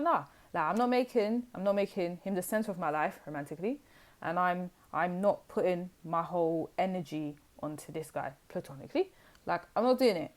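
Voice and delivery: emphatic acted refusal, punched negatives; defiant refusal. Voicing the listener refusing to centre this guy, defiant. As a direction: refuse firmly on their behalf.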